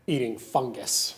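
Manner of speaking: disgusted. Real, not acted. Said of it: "how I feel about".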